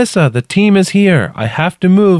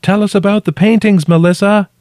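high, loud call down to someone trapped; shouting; 5 dB louder than usual. A narrator's reading. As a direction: shout it down into the crack. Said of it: "I shouted".

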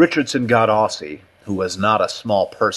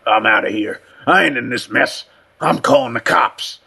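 put-on hoarse, agitated old-timer voice; frightened old man. Cut and Shoot refuses to get involved, frightened. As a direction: back out of it in alarm.

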